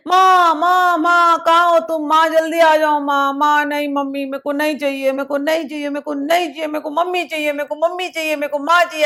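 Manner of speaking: put-on stubborn child crying for mummy; a child refusing toys, crying for his mother. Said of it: "ऐसा करके रोने लगता है".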